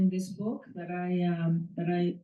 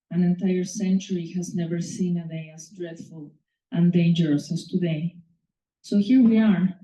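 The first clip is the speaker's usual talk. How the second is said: measured, deliberate literary reading of "Nothing is crueler than hope"; story reading. Acted. Author reads her story aloud.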